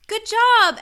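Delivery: high, loud proud-parent cheer, acted; mock praise. Planners praising a three-year-old's crayon plan, mock praise. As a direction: cheer like an over-encouraging parent.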